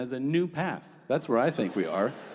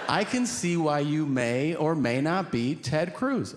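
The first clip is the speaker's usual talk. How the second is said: sly sarcasm; 3 semitones higher, slower than usual. Retold or imitated. Sarcastic parting jab at senator.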